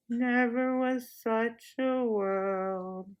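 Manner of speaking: very slow, dreamy repetition; dazed echo. Acted. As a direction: echo it half asleep. Jill echoes enchanted.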